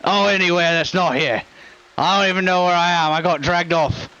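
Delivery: lightly put-on matey accent; rattled injured shopkeeper. Injured man begs a friend for help, put-on voice. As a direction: complain emphatically in character.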